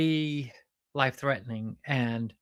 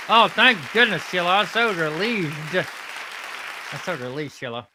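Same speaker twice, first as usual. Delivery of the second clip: gushing relief, loud start sinking away; acted sigh of relief from the sidekick; relieved sidekick; 4 dB louder than usual. Sidekick hearing Sheila's good news, relieved.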